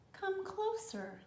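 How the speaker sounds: slow, soft, sinister call; luring crocodile. Acted. Crocodile lures the little elephant closer, slow and soft. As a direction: draw him in slowly.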